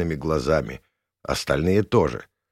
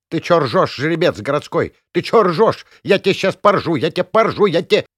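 much higher, loud, raging village woman; furious old woman; 9 semitones higher, 5 dB louder than usual. Acted. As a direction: scream at him in a rage. Gavrilovna furious at laughing man. (разъярённая баба, кричит)

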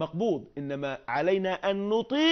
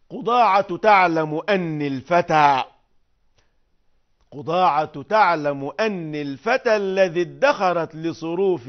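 louder, measured declamation of the verse; poem recital; 6 dB louder than usual. Acted. Teacher reciting al-Mutanabbi's verses to the class. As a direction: declaim it like a proud poet.

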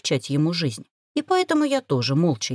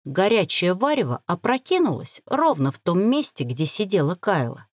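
ordinary delivery, nothing marked

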